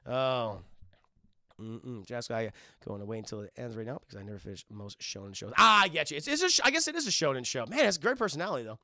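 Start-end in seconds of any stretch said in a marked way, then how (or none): 0.1-5.5 lightly voiced old man. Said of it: "I like my old man voice".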